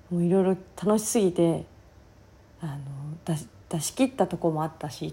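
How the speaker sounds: husky, worn-out talking voice; hoarse voice. Real, not acted. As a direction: voice hoarse from the day before. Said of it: "声枯れてます". (かすれた声)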